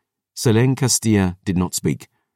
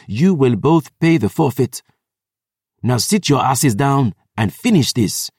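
cold fury; 5 semitones higher than usual. Acted. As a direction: scold the siblings imperiously. Historian's furious speech.

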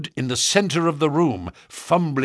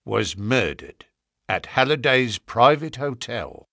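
grave. Acted. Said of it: "said Lestrade gravely".

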